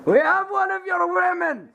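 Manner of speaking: high, stretched hostage-taker call. Pretend. Captor calls to opponents about a hostage, calling out.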